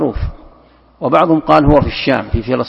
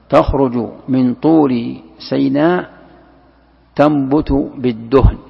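slow recitation; slower than usual. Shown as a demonstration. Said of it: "recites the verse slowly".

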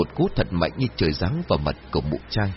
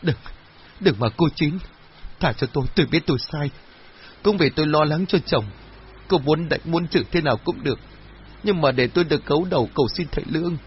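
higher, strained begging voice; a pleading cry, pitched well up; desperate pleading; 6 semitones higher than usual. A narrator's reading. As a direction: beg for mercy while clinging to her feet. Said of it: "gào thét bấu víu lấy chân của Chín rồi van xin".

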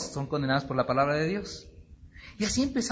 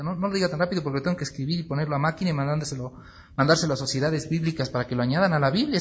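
mock urgency; faster than usual. Preacher playing an eager note-taker to a brother, mock urgency. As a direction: rattle it off as if scrambling to take notes. Acted scribe rushing to take down revelation.

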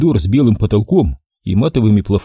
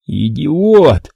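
howl of pain; 5 semitones higher, 3 dB louder than usual. A narrator's reading. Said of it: "взвыл я от боли".

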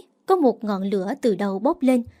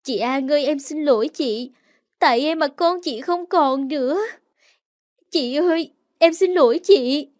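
crying apology; 3 semitones higher than usual. Acted. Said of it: "cầm lấy tay tôi khóc".

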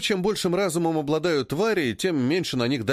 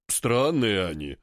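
slow snorting ape voice; 4 semitones lower, slower than usual. Acted. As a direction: snort it out dismissively. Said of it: "фыркнул Бибизьян". (фыркающий голос Бибизьяна)

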